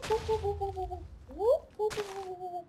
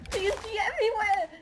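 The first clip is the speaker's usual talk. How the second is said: high giggly laugh; 11 semitones higher than usual. Real, not acted. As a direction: laugh through the words. Laughing during game.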